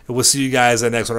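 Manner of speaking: normal talking voice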